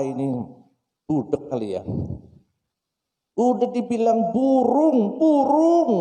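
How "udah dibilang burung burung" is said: high, loud, fed-up shout; irritated child. Acted. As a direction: snap at the father, building. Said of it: "Coba kesel kan anak". (anak kesal membentak)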